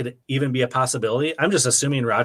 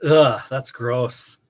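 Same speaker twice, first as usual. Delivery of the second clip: slow disgust; much slower than usual. Real, not acted. Reacting to a bad trade.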